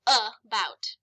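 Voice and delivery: "about" broken into uh, bout; schwa pronunciation. Shown as a demonstration. Teacher reading the word, "about" with schwa. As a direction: open "about" with a short uh. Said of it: "So this word says".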